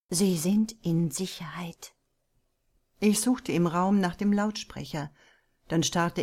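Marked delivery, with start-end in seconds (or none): 0.1-1.9 breathy, unvoiced reassurance; soft whisper. Unseen woman calming the prisoner in a whisper. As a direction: hush the words like a calming secret. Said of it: "klang es leise zurück".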